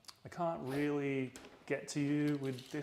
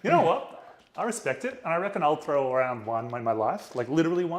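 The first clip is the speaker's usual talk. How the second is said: excited; 4 semitones higher, 7 dB louder than usual. Real, not acted. Excited banter about a yell.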